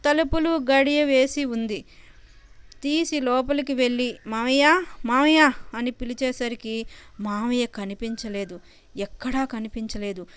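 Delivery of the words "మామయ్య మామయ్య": louder call through the house. Acted. Daughter-in-law searches the house, calling out loudly. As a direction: call his name to find him.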